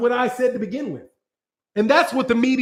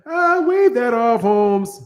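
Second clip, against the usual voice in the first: mock voice; slower than usual. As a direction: drag it out teasingly, in a put-on voice. Mocking the fighter's wave-off.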